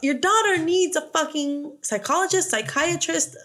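high-pitched, hammed-up outrage; acted indignant mother; exasperated mock rant. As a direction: rattle off each option, increasingly fed up. Acted outraged mother berating doctors.

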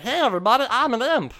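high, loud goblin announcement; imp puppet voice. Retold or imitated. Imp popping up to introduce himself, high puppet voice. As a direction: introduce yourself as a little puppet imp, pitched right up. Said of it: "when he's like".

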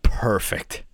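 whispered deadpan; hushed mock delight. Real, not acted. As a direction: breathe it out as a dry joke. Deadpan reaction to mouse news.

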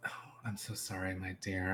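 fast, gentle whisper; whispered apology. Acted. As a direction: apologise softly to him.

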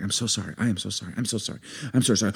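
soft, low, rapid-fire apologies; good neighbour mode. Retold or imitated. Wife placates screaming neighbour at the door, meek good-neighbour mode. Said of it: "good neighbor mode".

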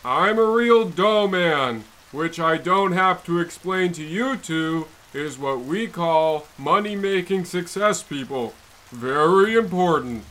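lightly put-on tycoon voice; pompous businessman; Rockefeller impression. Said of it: "name might start with John and end with Rockefeller Junior".

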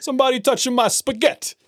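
high-pitched mock complaint, spaghetti cut to "spaghett"; hammed-up high meme voice; meme imitation. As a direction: quote the viral video in a high put-on voice. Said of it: "some video that went around".

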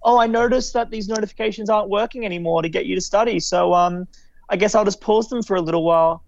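falsely helpful, brisk guilt trip; passive aggressive. Retold or imitated. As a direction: imitate a passive-aggressive app mascot. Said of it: "he'll be, like, passive aggressive to you".

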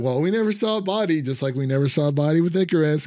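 fast, eager imitation of your own excitement rising to a high peak; excited fan theory rant. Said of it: "I was like".

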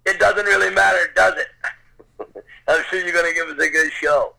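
cocky jerk. Acted. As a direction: play a smug big shot brushing someone off. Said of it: "a real cocky jerk".

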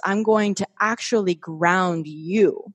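slow, settled, grounding tone; slow right down and land each word; calm, grounded delivery. Shown as a demonstration. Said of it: "if I talk more like this".

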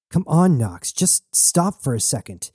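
pleading. Acted. Jazz pleading with Knox.

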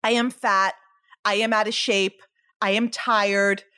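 low, mildly glum self-criticism; self-critical. Acted. Voices self-criticism, against the affirmations.

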